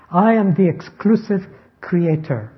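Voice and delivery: "I" lifted and weighted at the start; stress on I. Acted. The Lord as sole creator, emphatic "I". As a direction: lean firmly on the opening "I". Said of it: "It's an emphatic pronoun".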